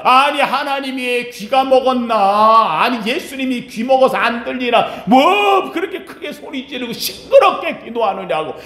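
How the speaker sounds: lightly voiced grumbling objectors; mock pious complainers. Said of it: "이런 사람들에게입니다".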